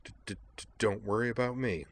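soft, halting stammer on first sounds; a gentle nervous stammer; stammering girl. Acted. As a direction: stumble shyly over each start. Kate's stammering dialogue.

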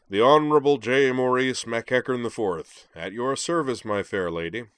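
loud, high, mock-formal introduction; grand booming bow. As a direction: boom it out like a courtly knight. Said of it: "to bow and boom".

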